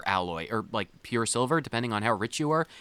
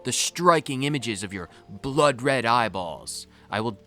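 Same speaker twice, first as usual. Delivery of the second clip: dramatic reading. Acted. Reads flirty dialogue dramatically.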